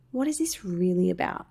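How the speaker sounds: gentle, calm self-questioning; demonstrating a nice, composed tone. Shown as a demonstration. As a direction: ask yourself kindly and calmly. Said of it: "say in a nice, soft, calm voice".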